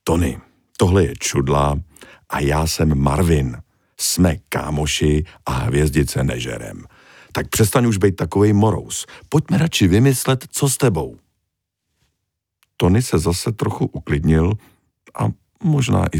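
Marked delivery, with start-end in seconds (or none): 0.0-11.2 gentle, patient big fish; conciliatory. Acted. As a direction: soothe the prickly starfish. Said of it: "trochu smířlivěji".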